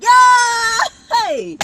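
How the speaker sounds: high shouted yeah; loud cheer. Retold or imitated. Cheering along with roommates, a loud high yeah. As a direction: throw it up like a cheer.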